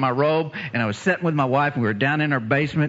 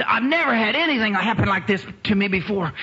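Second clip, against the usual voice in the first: raised, overwhelmed exclamation; acted amazement; 6 semitones higher than usual. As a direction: marvel at it, as re-enactment. Acts out woman's amazement.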